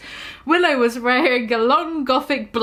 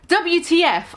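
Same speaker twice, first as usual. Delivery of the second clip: mock angry shout; 7 semitones higher than usual. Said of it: "I shouted angrily".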